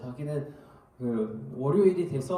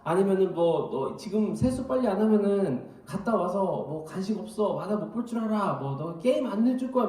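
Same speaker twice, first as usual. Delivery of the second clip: threatening; 2 semitones higher than usual. Retold or imitated. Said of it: "온갖 협박을 하면서 깨웁니다".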